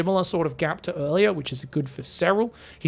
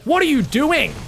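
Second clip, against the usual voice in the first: higher-pitched mock scolding; 8 semitones higher, 4 dB louder than usual. Hydras come over to the Marauder, scolding. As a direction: tell them off in a raised, incredulous pitch. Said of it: "did get scolded there".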